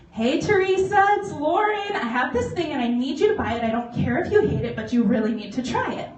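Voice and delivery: high, loud, bubbly sales call; eager phone pitch. Retold or imitated. Calling friend Teresa to push the product, high and loud. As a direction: sell it hard to a friend on the phone.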